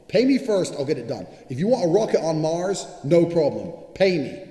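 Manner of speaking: loud and high, banging on each demand; demanding shout. Real, not acted. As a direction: bark out the terms. Insisting rant on getting paid.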